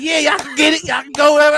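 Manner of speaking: mock pep talk.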